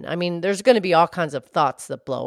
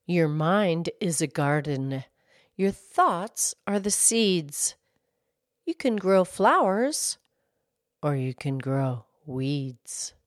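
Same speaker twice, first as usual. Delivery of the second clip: reciting a quote; slower than usual. Acted. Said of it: "it goes like this".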